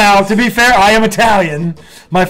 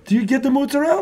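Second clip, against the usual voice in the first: higher mock Italian-American do you get the mozzarella; imitating aunt's Italian accent; 6 semitones higher, 4 dB quieter, faster than usual. Nephew imitating his aunt at Christmas, mock Italian-American accent. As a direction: mozzarella clipped to mootsa-rell, Italian style. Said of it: "she always does this too".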